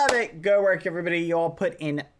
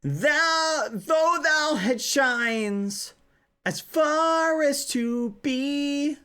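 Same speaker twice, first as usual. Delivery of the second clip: mock Shakespearean insult; 7 semitones higher, slower than usual.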